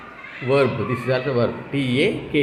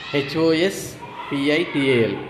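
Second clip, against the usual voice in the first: each letter drawn out slowly; slow spelling; slower than usual. Shown as a demonstration. Teacher spelling hospital slowly for learners. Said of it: "teacher spells word letter by letter".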